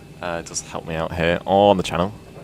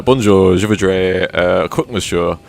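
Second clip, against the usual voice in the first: trying French; 6 dB louder than usual. Retold or imitated. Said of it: "so I could say".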